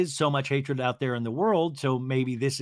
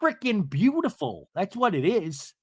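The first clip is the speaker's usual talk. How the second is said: Seth imitation; 5 semitones higher than usual. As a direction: stretch it out in a high put-on voice. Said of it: "And Seth's like".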